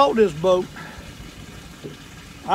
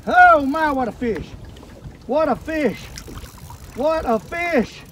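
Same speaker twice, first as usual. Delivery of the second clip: excited; 5 semitones higher than usual. Real, not acted. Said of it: "I'm getting excited".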